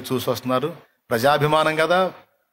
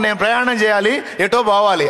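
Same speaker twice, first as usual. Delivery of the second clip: mock vague answer; 7 semitones higher than usual. Shown as a demonstration. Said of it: "అట్లా కాకుండా".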